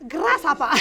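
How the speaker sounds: martial-arts movie Asian accent, played for laughs; mock Asian accent. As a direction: put on a playful Asian accent. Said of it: "Asian accent thing happening".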